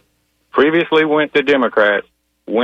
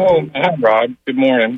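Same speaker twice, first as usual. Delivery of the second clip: caller on a speakerphone; hollow, roomy phone sound. Real, not acted. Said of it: "it sounds like you're in a tunnel".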